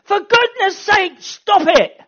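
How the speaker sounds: high, loud plea; God begging them to stop; loud, high urgent plea; passionate plea. Acted. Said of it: "is saying".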